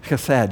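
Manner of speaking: "Chesed" accented on the final syllable, khe-SED; second-syllable stress. Shown as a demonstration. Teacher demonstrating Hebrew to congregation, "Chesed" stressed on second syllable. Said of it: "accent the second syllable".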